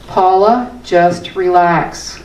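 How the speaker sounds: slow, soothing mantra to herself; calming self-talk. Shown as a demonstration. Speaker calming herself with her own mantra, slow and soothing. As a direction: ease her own mind, slowly. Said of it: "I use this".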